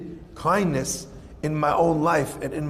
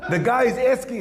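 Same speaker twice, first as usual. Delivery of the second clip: laughing; 5 semitones higher than usual. Real, not acted. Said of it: "that wasn't me having a seizure".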